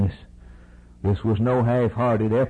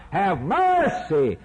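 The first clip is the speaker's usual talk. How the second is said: sinking plea; 6 semitones lower, much slower than usual. Acted.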